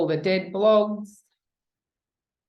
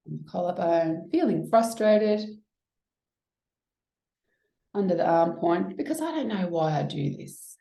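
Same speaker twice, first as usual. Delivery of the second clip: tapping round. Shown as a demonstration. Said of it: "that's what we call one round of E F T".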